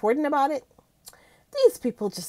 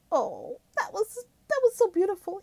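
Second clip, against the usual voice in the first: real high, tender gushing; touched gushing; 10 semitones higher than usual. Real, not acted. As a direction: gush as if melting over something sweet. Gushing over a couple's sweet moment.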